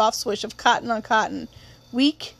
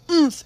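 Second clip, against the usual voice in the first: grunt; 5 semitones higher, 3 dB louder than usual. Acted. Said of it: "Its owner said".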